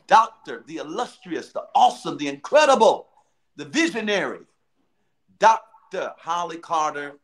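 grand host introduction, punched adjectives. Real, not acted. Host presenting the show's illustrious founder, hosting voice. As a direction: build up the titles with big emphatic pauses. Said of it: "that's my hosting voice".

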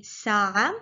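sa'a said slowly with a clear glottal break. Shown as a demonstration. Teacher saying sa'a slowly for learners. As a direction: say sa'a slow, both vowels apart. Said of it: "In standard Arabic, we will say".

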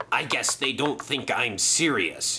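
understated villain's growl; mild growl. Acted. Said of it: "he growled".

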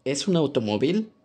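"automóvil" ending on a rising tune; plain Spanish question, pitch going up at the end; rising question intonation. Shown as a demonstration. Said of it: "Compare la entonación de las oraciones rusas y las españolas".

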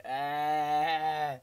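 drawn-out "aah" imitating a flying ball; imitated ball noise. Player describing ball flying around, imitated noise. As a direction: voice the ball sailing past. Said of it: "flying around like".

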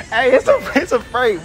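urgent reveal. Real, not acted. Prankster confessing to an angry stranger, giddy and loud. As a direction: call out quickly to defuse it.

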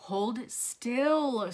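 mildly soothing, drawn-out words; understated motherly calm; soothing mom. Acted. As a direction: settle a squirming child. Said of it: "soothed Missus Gomez".

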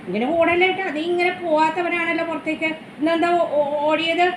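hoger en zachter, lief tegen het dier; talking to the pet. Real, not acted. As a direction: praat hem zacht toe.

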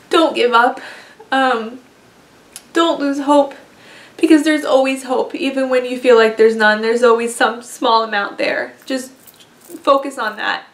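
holding back tears, voice lifting and pushing; fighting tears to encourage them; emotional. Real, not acted. Vlogger tearing up while telling viewers not to lose hope. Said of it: "sorry, I'm gonna get emotional again".

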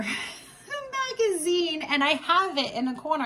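embarrassed laugh through words; sheepish chuckling confession. Real, not acted. Laughs while confessing delay.

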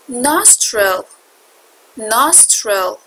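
Nostril, first vowel an open ah. Shown as a demonstration. Teacher showing students the ah in Nostril. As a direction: say Nostril as nah-strel.

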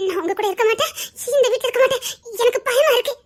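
tearful and frightened; crying in fear. Acted. Wife sobbing that she is scared to stay.

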